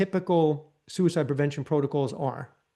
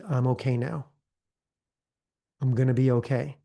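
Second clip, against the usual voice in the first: calm affirmation; 2 semitones lower than usual. Shown as a demonstration. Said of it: "breathe deeply and slowly".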